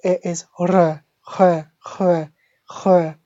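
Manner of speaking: "r" repeated, each one made at the back of the throat; dry throat R. Shown as a demonstration. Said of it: "from the back of the throat".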